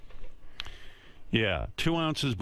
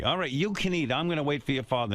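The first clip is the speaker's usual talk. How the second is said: lightly voiced, higher mom; mom impression; 5 semitones higher than usual. Mom relenting to her hungry child, lightly voiced high mom. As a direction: Mom giving in, voice pitched up. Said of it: "My mom would go".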